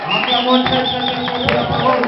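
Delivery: loud rousing call; preacher rousing applause for the word. Real, not acted. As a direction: whip up the crowd.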